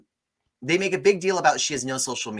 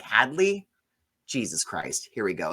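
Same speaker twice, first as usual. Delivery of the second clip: rising disbelief, then dropping low and soft; exasperated; 3 semitones lower, 3 dB quieter than usual. Retold or imitated. Host reacting to the dead mother's name, exasperated. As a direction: roll your eyes at the name. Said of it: "I'm like".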